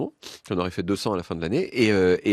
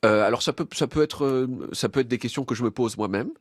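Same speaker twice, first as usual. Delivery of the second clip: stuffy nose, talking through a cold; blocked nose. Real, not acted. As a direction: speak like your nose is blocked. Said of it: "je suis un peu enrhumé, donc je parle du nez".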